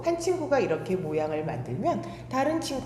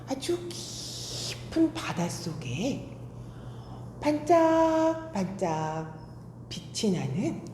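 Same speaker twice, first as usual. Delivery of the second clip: put-on storytelling to children.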